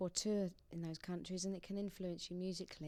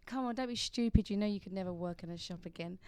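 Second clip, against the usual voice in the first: lightly acted telling-off; mock scolding; 5 dB louder than usual. Singer quoting a woman telling her not to be stupid, mildly scolding.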